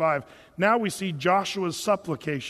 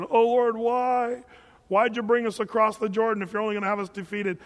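mock wailing; 3 semitones higher than usual. Joshua wailing to the Lord.

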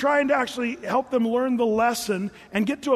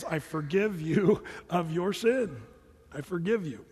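slow, gentle pardon; tender forgiveness; 2 semitones lower than usual. Acted. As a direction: grant forgiveness calmly and unhurriedly. Voices the Lord forgiving David.

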